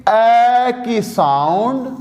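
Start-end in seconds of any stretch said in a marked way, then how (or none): 0.1-0.7 اے said as a short open "e"; sound of اے. Shown as a demonstration. Teacher modelling the vowel sound, drawn-out اے. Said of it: "یاد رکھیں کہ یہ اے نہیں ہے".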